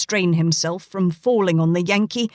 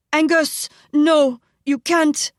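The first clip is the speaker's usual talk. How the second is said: high, slow pleading wife's voice; high anxious plea; 7 semitones higher, 4 dB louder than usual. Acted. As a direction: beg your husband to stop, pitched high. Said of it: "Layla pleaded".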